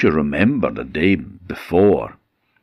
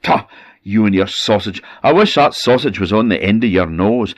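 angry husband cursing; 4 semitones higher, 5 dB louder than usual. Acted. Angry husband curses wife.

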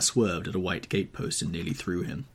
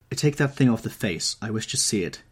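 shaken command; 3 semitones higher, 4 dB louder than usual. Acted. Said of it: "clutching at the doorpost for support".

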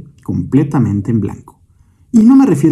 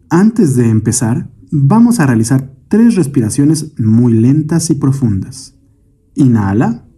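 calm meditation guide, measured phrases with long pauses; guided meditation. Acted. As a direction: lead the listener gently through breath and imagery, unhurried. Leads a guided breathing meditation. (meditación guiada, voz tranquila y pausada)

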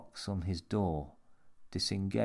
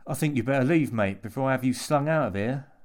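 loud, raised-pitch warning; indignant threat; 5 semitones higher, 7 dB louder, faster than usual. A narrator's reading. Jimmy warns the intruder to leave, loud and indignant. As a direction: order him out with rough bluster.

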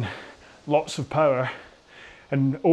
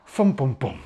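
rhythm sounds; 2 semitones lower, slower than usual. Shown as a demonstration. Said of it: "So it goes".

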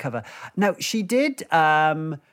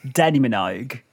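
bad Australian accent; 5 semitones lower than usual. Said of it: "I could do a sister as well".

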